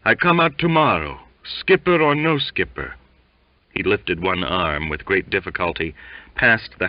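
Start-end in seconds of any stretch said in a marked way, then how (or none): 0.0-2.9 high-voiced defiant insistence; stubborn sick sailor. A narrator's reading. Sick sailor defying the skipper, high and insistent. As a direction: repeat the vow stubbornly from the bunk. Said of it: "mumbled Waite".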